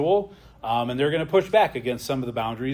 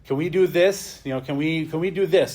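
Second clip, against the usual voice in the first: lightly voiced pleading child, higher; imitating daughter asking; 4 semitones higher, 4 dB louder than usual. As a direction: playfully mimic a little girl begging. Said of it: "Gemma asking".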